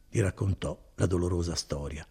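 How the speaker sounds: usual speaking voice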